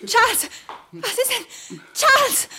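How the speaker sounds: alarmed calling. Acted. Wife's friend calls in alarm.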